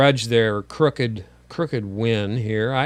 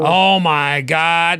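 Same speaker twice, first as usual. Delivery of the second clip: shocked; 4 semitones higher, 7 dB louder, much slower than usual. Real, not acted. Reacting to hot dog photo.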